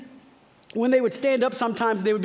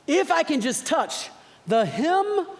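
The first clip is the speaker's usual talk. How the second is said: slow longing whisper-thought; 5 semitones higher, slower than usual. Acted. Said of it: "her thought quoted".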